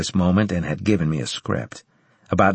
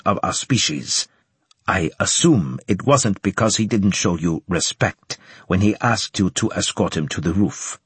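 put-on slight Japanese accent. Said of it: "with a slight Japanese accent".

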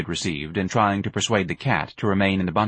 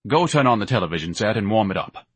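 absent-minded order; mildly distracted instruction. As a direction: say it absently, attention elsewhere. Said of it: "Ignatius said absently".

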